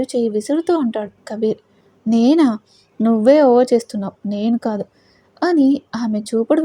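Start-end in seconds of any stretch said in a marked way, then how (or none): 2.1-4.8 angry. Acted. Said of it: "కోపంగా అంటుంది".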